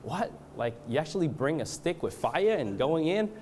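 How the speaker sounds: baffled, lightly acted-out disbelief; retold bafflement. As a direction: imitate a friend's incredulous question. Acts out Grace's baffled question.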